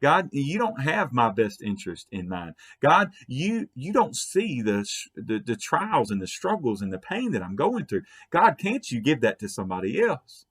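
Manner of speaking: mildly accusing complaint to God; imitated attitude. Believer complaining to God about their trials, with imitated attitude. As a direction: put some reproach into it, as if imitating a complainer. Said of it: "we say it with an attitude".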